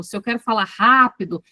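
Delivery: lightly hurried demonstration phrase; fast-talk demo. Shown as a demonstration. Teacher showing she can control her tempo, fast-talk demo. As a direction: push briskly through to "rápido". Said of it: "o tom e o tempo da minha voz".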